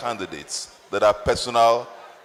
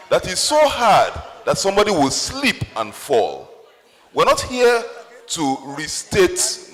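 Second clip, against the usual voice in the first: emphatic raised voice; 3 semitones higher than usual. Real, not acted. Moderator scolding questioners to ask hard questions, raised voice. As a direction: drive it home to the room.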